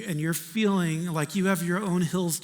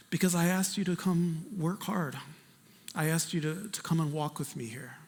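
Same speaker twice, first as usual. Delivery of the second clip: softer, tender reassuring voice; gentle voice of God; 2 semitones lower, 6 dB quieter than usual. Retold or imitated. Preacher voicing the Lord to the congregation, soft and tender. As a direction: speak it softly, as God comforting.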